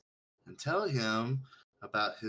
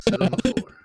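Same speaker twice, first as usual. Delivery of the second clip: loud command; 9 semitones higher, 12 dB louder, faster than usual. Acted. Commanding childish listener.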